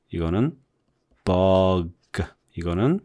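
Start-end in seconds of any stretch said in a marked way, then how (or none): 1.2-2.2 mug spoken as in American English, open short vowel; English demo word. Shown as a demonstration. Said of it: "이렇게 소리 내면 되죠".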